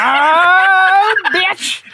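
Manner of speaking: sudden high loud cry; real yelp of surprise and pain; startled yelp. Real, not acted. Player caught off guard, lets out a high yelp. Reacting sharply during drinking game.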